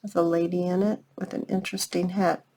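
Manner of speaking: ordinary delivery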